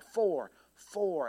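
"for, for" repeated with emphasis on each; stress on FOR. Shown as a demonstration. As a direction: dwell on the word "for" each time. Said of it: "I would put emphasis on each word".

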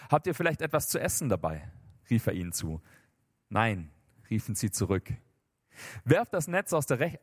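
measured Bible story narration; scripture reading. A narrator's reading. Preacher reads Peter's second chance to the congregation, measured scripture reading. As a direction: read the Gospel story out deliberately.

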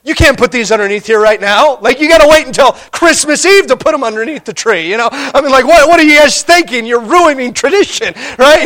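teen brother protests the early presents, in mock fury; imitating an angry brother. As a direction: scold the parents for breaking tradition. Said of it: "My brother was livid".

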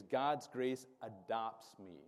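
slow, spaced-out call for the crowd to repeat; slow lead line. Shown as a demonstration. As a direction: lay it out slowly so they can echo it. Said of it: "The third thing I want you to say with me is".

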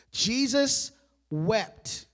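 slow, spaced-out delivery; weighty proclamation. Real, not acted. Preacher proclaiming the shortest verse, slow and weighty. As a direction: give each word its own space.

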